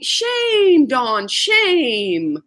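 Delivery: put-on giggling South African accent; South African shame. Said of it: "She'll say".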